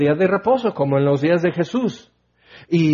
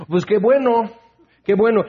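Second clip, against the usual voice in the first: sarcastic; 5 semitones higher than usual. Real, not acted. Sarcastic retort after laugh.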